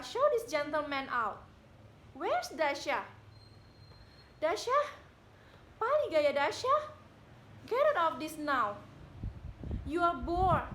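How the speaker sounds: loud, furious yelling at him; furious shouting. Acted. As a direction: throw him out at full voice. Widow shouts at the visitor.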